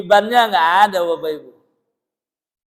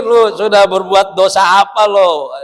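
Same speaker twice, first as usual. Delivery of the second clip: a hint of a stern trainer, slow and louder; slow, pointed demand; lightly voiced stern trainer; 6 dB louder, slower than usual. Trainer demanding participants recall their sins, slow and louder. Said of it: "Nanti disuruh mikir".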